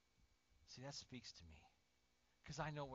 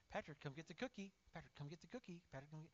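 lightly higher coaxing call; coaxing a baby; 3 semitones higher, faster than usual. Retold or imitated. Older brother luring baby brother with a cookie, coaxing. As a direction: coax a toddler towards a treat.

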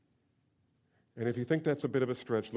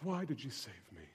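humbled question; 12 dB quieter than usual. Pretend. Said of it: "stand before God and say".

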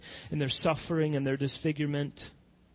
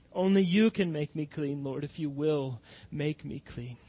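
humble prayer. Acted. Voices a penitent prayer.

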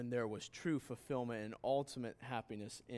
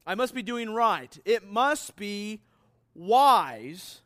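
much higher and louder, slowing down; loud mock quote; 6 semitones higher, 11 dB louder, slower than usual. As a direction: hammer out the smug slogan loud and high. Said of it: "that says this".

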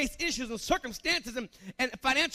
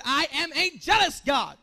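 God's proclamation; 3 dB louder than usual. Acted. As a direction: boom it out as God. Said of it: "he said".

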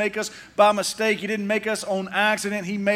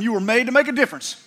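quick prompt to neighbour; faster than usual. Shown as a demonstration. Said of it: "Turn to the person sitting next to you and tell them".

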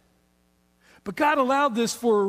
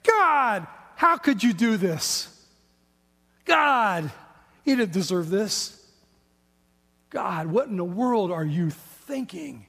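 anguished prayer; slower than usual. Acted. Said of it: "and they're saying".

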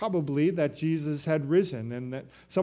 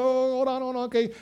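amused Jesus; 7 semitones higher, faster than usual. Acted. Jesus as Mary clasps him.

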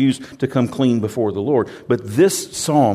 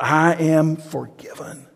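joyful shout; 5 semitones higher, slower than usual. Acted. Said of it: "he's gotta shout out".

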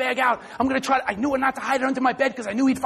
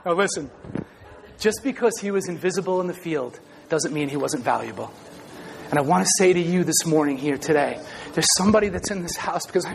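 earnest preaching; 9 semitones lower than usual. Acted. Low preaching of main point.

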